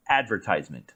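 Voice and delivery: "advertisement" stressed on the first syllable AD; American stress on AD. Shown as a demonstration. Host introduces the problem word, "advertisement" stressed on AD. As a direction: say "advertisement" the American way, AD-ver-tise-ment. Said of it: "stress a different syllable in the word".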